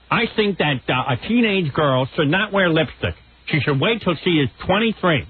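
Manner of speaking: lightly parodied conservative columnist; Ann Landers impression. Host as the columnist advising on teenage girls, mock prim. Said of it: "She was boring".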